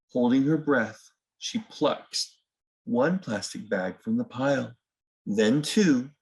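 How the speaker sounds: gentle storybook reading, unhurried; reading to children. A narrator's reading. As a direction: read it like bedtime story time for little ones. Reads picture book to children.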